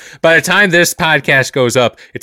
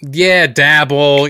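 savoring the word; 3 semitones higher, 4 dB louder, much slower than usual. Acted.

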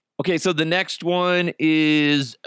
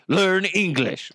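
commercial tagline; 6 semitones higher than usual. Retold or imitated. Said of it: "Then it goes".

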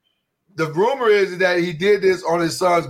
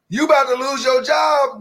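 ranting call-out; 5 semitones higher than usual. Real, not acted. Ranting to all posters.

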